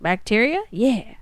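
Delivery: lightly voiced old-time joke teller; old record comedian. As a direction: land the corny punchline like a record comic. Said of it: "And he's like".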